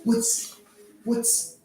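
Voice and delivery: high, loud crazed whisper of power ending in a shout; power-hungry dwarf. Acted. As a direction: lust for power, then panic. Dwarves fight over pouch.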